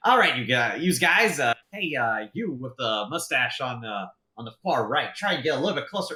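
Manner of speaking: lightly hammed-up call to a group; mock yelling. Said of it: "like, yelling in common".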